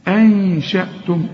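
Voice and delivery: slow أنشأتم, nasal hum before ش; hidden nun. Shown as a demonstration. Teacher demonstrates ikhfa, held nasal hum. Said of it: "النون اخفيها".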